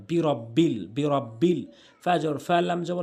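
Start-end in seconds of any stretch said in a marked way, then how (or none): 0.1-1.6 বিরব্বিল in one short run, no lengthening; quick reading. Shown as a demonstration. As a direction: say বিরব্বিল briskly, unbroken. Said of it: "তাড়াতাড়ি পড়তে হয়".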